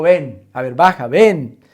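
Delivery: loud beckoning call; Jesus calling Peter out of the boat, loud. Acted. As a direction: call him over the water. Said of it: "Jesús le dijo".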